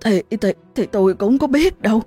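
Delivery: flustered. Acted. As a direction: panicky and tripping over words. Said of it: "luống cuống kể chữ được chữ mất".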